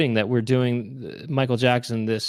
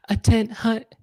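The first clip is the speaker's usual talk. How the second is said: a high, pitched-up call of attention; mock drill command; 8 semitones higher, slower than usual. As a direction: shout the order like a mock sergeant.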